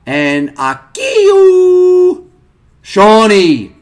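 high, loud cry of joy; excited shout. Real, not acted. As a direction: yell it out in real excitement. Big hit pulled on stream.

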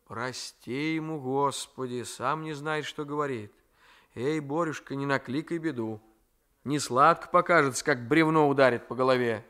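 a hint of a fond, grumbling old woman; grandmother's voice. Grandmother warns Raisky.

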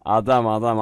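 loud amazed praise, drawn out; amazed excited. Real, not acted. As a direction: stretch the last adam slowly. Amazed he returned the sword.

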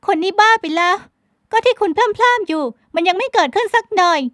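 high, loud, curt brush-off; a high-voiced woman snapping to cut the talk short; snappy young woman. A narrator's reading. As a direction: toss the words off impatiently. Heroine protests again.

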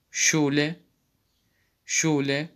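Schule said SHOO-leh; German sch. Shown as a demonstration. Teacher modelling the sch sound for students. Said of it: "ş diye okunmaktadır".

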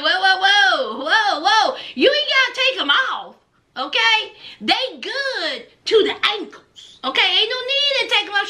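put-on nervous boyfriend stopping her undressing; Blaine pleading. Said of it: "he was like".

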